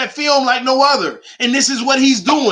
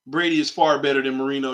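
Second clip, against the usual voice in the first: mock opponent; 10 semitones lower, 7 dB quieter, faster than usual. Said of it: "You done lost your mind, Mike".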